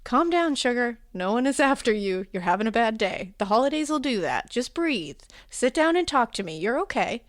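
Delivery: calm him down with a motherly Southern lilt; soothing Southern woman. Acted.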